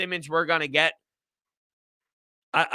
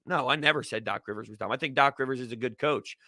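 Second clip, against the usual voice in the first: softer, lower, fast throwaway repeat; quick quiet aside; 4 semitones lower, 6 dB quieter than usual. Shown as a demonstration. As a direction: mutter it again quickly under the breath.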